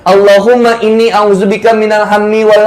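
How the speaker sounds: measured Arabic du'a recitation; prayer recitation. Real, not acted. Preacher teaching the debt prayer to congregation, reciting. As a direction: recite the supplication phrase by phrase.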